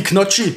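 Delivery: Knocchi with a hard K at the start; German mispronunciation. Retold or imitated. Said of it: "Genauso wie Knocchi".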